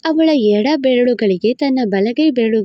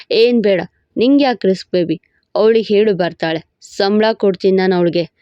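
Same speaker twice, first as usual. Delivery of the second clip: lower, playful husband teasing his wife; 4 semitones lower than usual. Acted. Husband teasing his wife in bed, lower playful voice. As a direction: tease her like a cocky husband.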